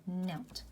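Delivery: "knelt" said slowly and softly with a clear final t; slow English demo. Shown as a demonstration. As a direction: model "knelt" slowly, landing the t. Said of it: "diría".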